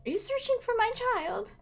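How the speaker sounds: lightly voiced pastor, gentle and pious; mild churchy preacher voice; a hint of a preacher. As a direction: ask like a kindly minister. Preacher figure answers phone.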